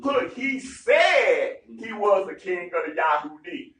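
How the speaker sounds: loud, insistent Pharisee objection; slowing down on the last line; pushing back hard on Pilate; retold protest. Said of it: "Pharisee says".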